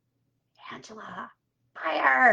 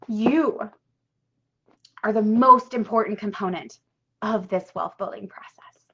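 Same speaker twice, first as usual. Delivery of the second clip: choked up. Real, not acted. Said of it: "I'm crying".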